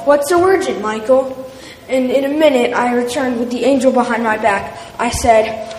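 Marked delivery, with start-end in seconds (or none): 0.1-1.3 a mother calling from the next room; curious call. Acted. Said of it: "My mother called".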